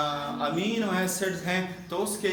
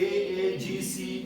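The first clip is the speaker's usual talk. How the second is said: धीरे-धीरे पढ़कर दिखाना; slower than usual. Shown as a demonstration. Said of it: "ऐसे पढ़ेंगे".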